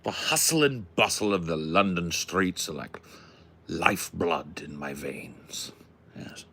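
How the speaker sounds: put-on mannered London-gentleman English accent. Musing aloud about London life, put-on English accent. Puts on genteel London character.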